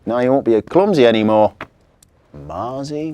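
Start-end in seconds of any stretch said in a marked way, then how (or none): 0.0-1.5 put-on pleased girl. Victoria pleased.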